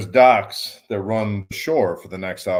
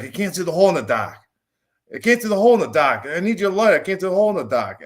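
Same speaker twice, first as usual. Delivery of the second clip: higher, louder mock South Boston accent; thick Boston accent; 8 semitones higher, 3 dB louder, faster than usual. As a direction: imitate a buddy calling out in thick Boston accent. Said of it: "'cause he has a Southern accent".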